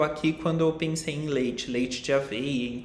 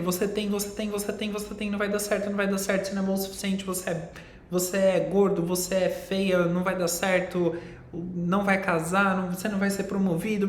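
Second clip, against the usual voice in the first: lightly voiced nagging inner critic, higher; nagging mind voice; 4 semitones higher, faster than usual. Teacher voices the mind nagging on and on. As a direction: rattle off the mind's endless complaints. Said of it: "Ela fica dizendo ali o tempo inteiro".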